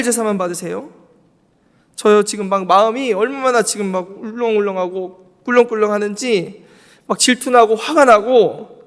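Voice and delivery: pleading, rising into upset and jealousy; preacher voicing Cain begging God for help, agitated; Cain's honest complaint. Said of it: "자신의 감정에 솔직했다고 생각을 해보면".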